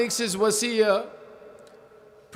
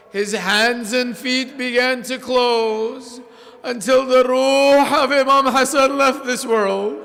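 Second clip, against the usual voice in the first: louder and higher, wailing the brothers' words; mournful lament; 6 semitones higher, 8 dB louder than usual. Acted. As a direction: rise into a grieving chant. Climax of the death lament.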